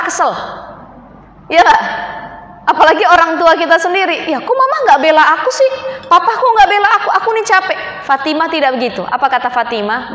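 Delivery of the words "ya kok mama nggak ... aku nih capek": mock whining. Mock modern daughter whining to parents.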